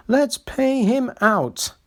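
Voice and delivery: high, slow scheming carriages; spiteful coaches scheming; vengeful coaches. Acted. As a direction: plot revenge like spiteful coaches. Coaches plotting revenge.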